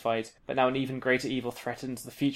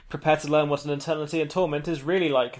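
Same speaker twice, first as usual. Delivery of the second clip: roaring; 4 dB louder than usual. Acted. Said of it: "the Shadow King roars".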